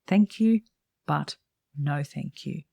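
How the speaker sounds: measured, polite brush-off; polite refusal. Shown as a demonstration. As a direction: decline politely, pausing before the no. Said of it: "explain politely".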